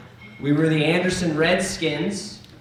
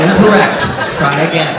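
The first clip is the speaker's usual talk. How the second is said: automated system voice; 9 dB louder than usual. Pretend. Computer security prompt voice.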